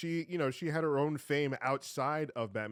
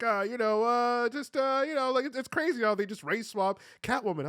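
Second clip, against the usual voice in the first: higher, hesitant mock ranting voice; mocking the YouTuber; 9 semitones higher, 3 dB louder than usual. Mocking a YouTuber's Catwoman rant, higher and halting. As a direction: parody his stumbling rant. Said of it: "be like".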